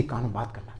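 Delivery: fast unvoiced whisper. Shown as a demonstration. Teacher explains whispering while whispering. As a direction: whisper it as if into an ear. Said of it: "फुसफुसाना क्या होता है?".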